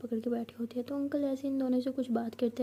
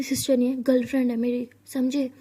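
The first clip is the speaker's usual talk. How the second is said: sharp and louder, correcting him; angry; 6 dB louder than usual. Acted. Piyu angrily telling the doctor she is her girlfriend. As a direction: snap it back at him. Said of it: "ऐसे गुस्से से बोलती है".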